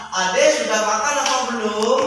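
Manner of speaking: sample question with "belum" rising at the end; question intonation. Shown as a demonstration. Teacher showing the class a question sentence, rising question tune. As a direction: ask it, lifting "belum". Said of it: "Itu kalimat ta".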